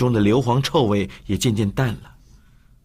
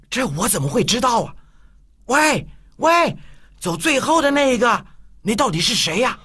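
mock spooky call; 12 semitones higher than usual. Tianming spooking the group.

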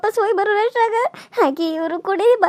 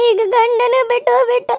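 sobbing, climbing higher and louder; crying despair; 4 semitones higher, 4 dB louder than usual. Acted. Widow crying that she has no one left to live for, sobbing and rising. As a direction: cry out who is left to live for.

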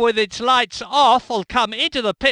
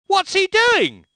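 startled disbelief; 9 semitones higher than usual. Acted. Car reversing on track.

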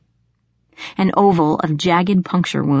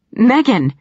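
higher-pitched shout of a name; startled, contained shout; alarmed shout; 6 semitones higher, 4 dB louder than usual. A narrator's reading. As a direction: call out in shock, pitched up. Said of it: "jerking his head toward the shout".

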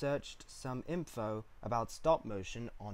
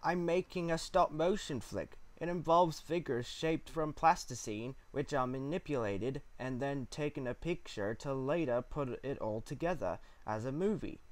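lightly voiced uncle; 3 semitones higher than usual. Uncle explains his hobby to niece, gently voiced.

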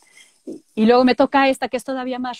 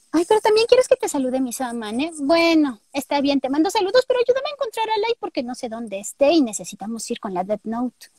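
put-on high, bubbly anime girl; Misa voice; 3 semitones higher than usual. Greeting Germán as Misa, high and bubbly. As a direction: pitch up into a sweet excited girl. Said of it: "con la voz de Mandy o de, eh, Misa".

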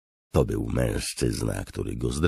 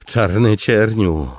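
high, loud drawn-out shout; crying out; 10 semitones higher, 10 dB louder, slower than usual. A narrator's reading. Captive cries out to the commander holding him, shouting. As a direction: shout it in desperation. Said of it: "krzyknął Tanalan".

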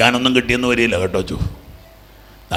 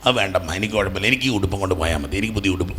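softer, lightly acted child declining; meek child's refusal; 3 semitones lower, 6 dB quieter, faster than usual. Child tells mother no new clothes are needed, meek refusal. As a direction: quietly play an undemanding child.

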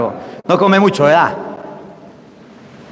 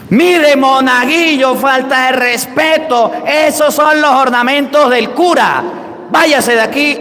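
scolding yell; 6 semitones higher than usual. Retold or imitated. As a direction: imitate an outraged sacristan chasing someone out. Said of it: "me ha pegado un grito". (regaño a gritos, imitado)

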